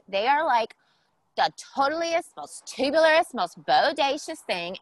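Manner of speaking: lightly put-on totally-tubular guest voice; eighties guest character. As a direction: lean hard on key words like an eighties teen.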